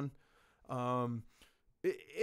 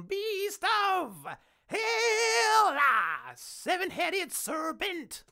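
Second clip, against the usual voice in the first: monstrous beast; 14 semitones higher, 4 dB louder, much slower than usual. Pretend. Describing the beast of hell.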